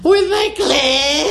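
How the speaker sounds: slow retry, last word stretched out; straining to say it. Acted. Mother retrying daughter's phrase, stuck on the word, straining. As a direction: push at the word and get stuck. Second attempt at the taboo word.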